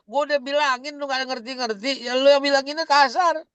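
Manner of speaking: lightly voiced parent grumbling; exasperated parent. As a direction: vent like a frustrated mum at her wits' end. Exasperated parent complaining about child.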